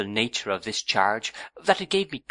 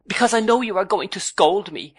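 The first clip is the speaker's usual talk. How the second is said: high, louder piteous cry; 9 semitones higher, 5 dB louder than usual. A narrator's reading. Young wife fears her husband's scolding, high and piteous. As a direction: plead as if about to be scolded. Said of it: "exclaimed Dora in a piteous voice".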